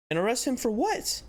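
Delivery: high, outraged question; incredulous. Real, not acted. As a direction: scoff at the absurd charge. Outraged at cop's threat.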